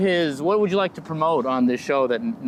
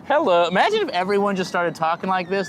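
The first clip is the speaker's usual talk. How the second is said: higher, invented accent somewhere near Scottish; made-up accent; 4 semitones higher than usual. Shown as a demonstration. Comic starting his own accent, hammed-up made-up accent. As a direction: try out a silly homemade accent. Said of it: "trying to start my own accent".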